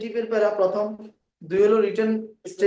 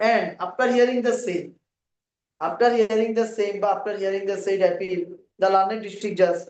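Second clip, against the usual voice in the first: slow, measured phrase-by-phrase dictation; much slower than usual. Shown as a demonstration. Teacher giving students the appeal paragraph, slow dictation. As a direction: read it out slowly for note-takers.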